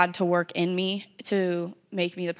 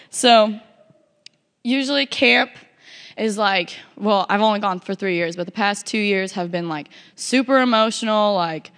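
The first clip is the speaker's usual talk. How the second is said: shaky voice. Real, not acted. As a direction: voice shaky with held-back tears. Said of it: "man, shaky".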